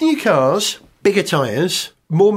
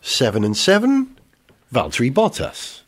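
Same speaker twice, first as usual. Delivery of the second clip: bingo caller; 4 semitones lower than usual. Pretend. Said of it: "You could do F one bingo".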